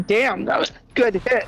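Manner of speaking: high, loose and giggly; just took a hit, relaxed; stoner. Real, not acted. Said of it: "Sorry, I'm high as fuck right now".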